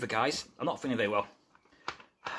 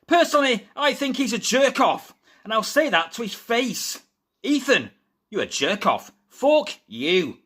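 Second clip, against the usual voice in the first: reading an angry quote; 6 semitones higher than usual. Retold or imitated. Host reading Rene Dupree's insults at Ethan Page, mock-angry. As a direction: read the insult out with mock venom.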